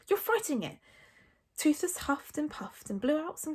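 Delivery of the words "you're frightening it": higher-pitched reproach; mildly exasperated; impatient Hiccup. A narrator's reading. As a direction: scold him impatiently without raising volume. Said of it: "said Hiccup impatiently".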